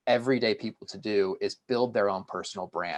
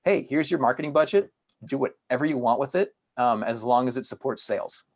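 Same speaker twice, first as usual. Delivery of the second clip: boss voice; 4 semitones higher than usual. Retold or imitated. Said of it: "we were told".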